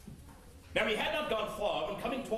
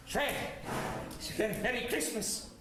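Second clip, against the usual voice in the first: put-on timid old Scrooge. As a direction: ask shyly, afraid of rejection. Scrooge timidly at nephew's door.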